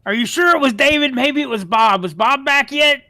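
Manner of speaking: loud high goofy ogre; dopey cartoon bellow. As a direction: boom it like a dim ogre. GM voices ogre.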